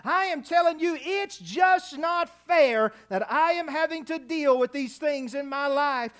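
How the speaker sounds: mildly hammed-up grievance; pity-party complaint. Believer complaining to God about hardship, mild mock self-pity. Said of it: "in my pity party right now".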